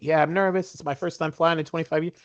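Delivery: high, eager nervous admission; nervous chatter. Retold or imitated. Telling the stewardess he is nervous, high and eager. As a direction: confess the nerves brightly. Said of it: "nervous as all get up".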